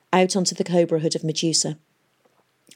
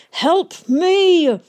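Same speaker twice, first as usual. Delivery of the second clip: high, loud desperate bellow; 12 semitones higher, 7 dB louder than usual. A narrator's reading. Valentine bellowing at the engineers for help. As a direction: roar it out for help. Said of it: "Valentine bellowed".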